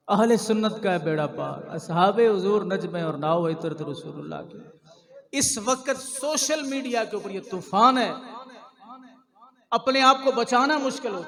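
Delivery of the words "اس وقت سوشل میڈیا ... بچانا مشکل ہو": raised, emphatic sermon warning; forceful preaching. Real, not acted. Preacher warns of the social media storm, forceful preaching. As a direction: warn the congregation with a high, pressing voice.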